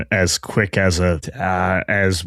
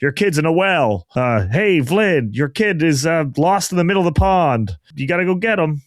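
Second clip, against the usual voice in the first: neighbor calling; 6 semitones higher than usual. Retold or imitated. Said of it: "calls from neighbors being like".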